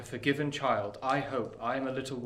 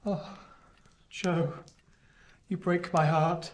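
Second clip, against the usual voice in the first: higher, louder anguished plea; remorseful pleading; 4 semitones higher, 4 dB louder than usual. Acted. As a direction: beg for his scolding. Pip begs Joe remorsefully.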